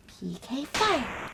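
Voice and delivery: drawn-out battle cry of a special move; attack call. Acted. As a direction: call out the attack name, slow and big. Calls out a fire attack.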